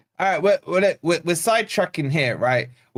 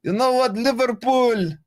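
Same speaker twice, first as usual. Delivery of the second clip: put-on higher-pitched Arab accent that slips into Russian; botched Arab accent; 4 semitones higher than usual. Streamer imitating Don Hussam for chat, botched Arab accent. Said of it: "I can do, like, a Don Hussam".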